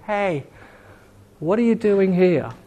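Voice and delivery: gentle, slightly lifted question; tender voice of God. Acted. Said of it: "There's a tenderness in his voice".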